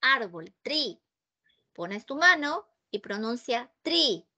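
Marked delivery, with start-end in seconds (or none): 0.6-1.0 TREE with a stopped T, no puff; TREE softer and falling, hard T. Shown as a demonstration. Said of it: "¿Sale aire?". 3.8-4.3 TREE with a T that lets out no air; TREE with T, never TH. Shown as a demonstration. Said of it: "¿Sale aire?".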